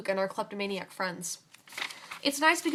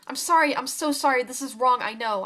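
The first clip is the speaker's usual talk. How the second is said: crying apology; 3 semitones higher, 6 dB louder than usual. Acted. Sifa apologizing to the chef, upset and pleading. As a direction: beg forgiveness through tears. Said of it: "I'm crying".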